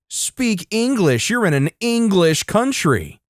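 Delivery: high, mild mock shriek. Entitled mother scolding a Dutch speaker, mock shrieking. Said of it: "Entitled Mother still shrieking".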